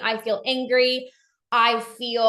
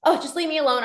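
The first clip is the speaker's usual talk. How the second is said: defensive brush-off; 4 semitones higher, much faster than usual. Acted. Acted refusal to explain to partner.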